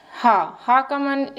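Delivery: हा said slowly and deliberately; teacher sounding out हा slowly; slow letter sound. Shown as a demonstration. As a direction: stretch the हा sound for the class. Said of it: "meaning होता है हैन".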